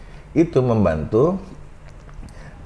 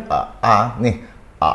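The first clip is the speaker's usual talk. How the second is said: sustained connected a. Shown as a demonstration. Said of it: "Disambung, jangan putus".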